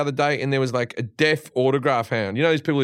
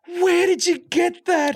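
high, slow mock-innocent question; high-pitched Australian actress playing innocent; mock high Margot voice; slower than usual. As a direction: squeak it out, imitating her surprise. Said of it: "and she goes".

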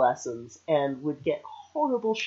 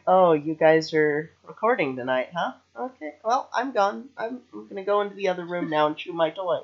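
lightly voiced dog; 2 semitones higher than usual. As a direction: lightly act out a dog excusing herself. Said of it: "she's just gonna be like".

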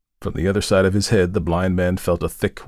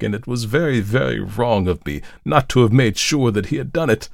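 raised, self-blaming outburst; priest's impassioned remorse; remorseful lament; 6 semitones higher, 4 dB louder than usual. A narrator's reading. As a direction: confess the fault with acted anguish. Priest blames himself in the story.

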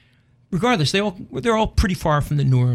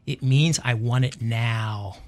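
put-on slow child answer; 2 semitones lower, much slower than usual. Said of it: "she said".

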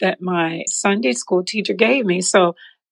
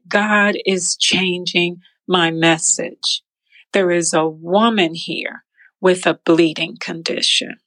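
pastor voice. Retold or imitated. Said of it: "He said".

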